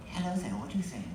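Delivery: put-on British accent. Volunteer dummy told to sound British, mock British accent. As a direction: put on a quick British greeting. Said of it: "do that real fast, you will sound British".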